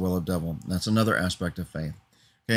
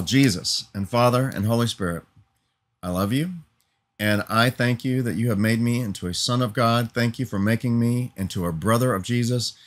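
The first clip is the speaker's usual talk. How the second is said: a sincere, steady spoken prayer. Real, not acted. Preacher turns from his hearers to pray to Jesus, sincere prayer. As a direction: talk to God, thankful and earnest. Prays aloud to close.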